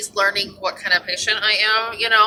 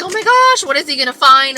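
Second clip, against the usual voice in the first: imitating her own panic, higher and louder; mock panic; 4 semitones higher, 5 dB louder than usual. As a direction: squeal it like a nervous patient. Retelling her panic before the scope.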